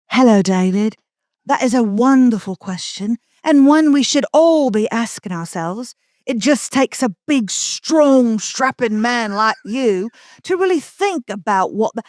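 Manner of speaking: slowed, lightly voiced flattering chatbot; butter him up like a smitten assistant; fawning AI voice. Chatbot answering David's question, mock fawning and slowed. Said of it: "came back exactly like this".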